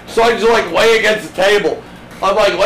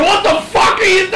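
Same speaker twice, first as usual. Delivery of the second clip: yelling across the room; 11 semitones higher than usual. Retold or imitated. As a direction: scream at them down the stairs. Ex screaming, retold.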